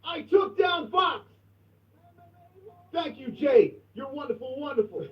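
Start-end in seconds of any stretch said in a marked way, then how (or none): 0.0-1.3 slow, drawn-out hype shout. Real, not acted. Host hyping co-host to stream, slow hype shout.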